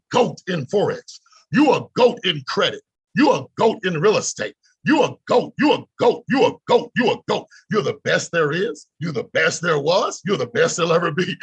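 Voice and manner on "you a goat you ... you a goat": building shout. Real, not acted. Hype chant building up.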